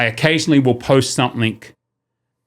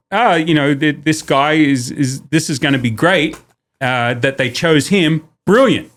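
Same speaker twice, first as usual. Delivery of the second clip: sarcastic. Retold or imitated. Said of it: "was I being sarcastic?".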